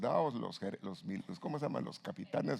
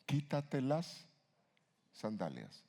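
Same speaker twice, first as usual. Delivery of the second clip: voice of God; 2 semitones higher, slower than usual. Retold or imitated. God commanding the man on the mountain, slow and solemn. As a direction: draw out "Quítate las" slowly, then sink the last word. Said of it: "¿qué le dijeron a un hombre".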